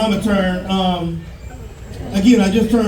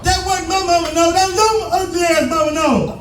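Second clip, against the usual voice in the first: a high, hammed-up cussing out; a dad in a hammed-up clapback; a high, laughing mock yell at the wife; 11 semitones higher than usual. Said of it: "cuss her the fuck out".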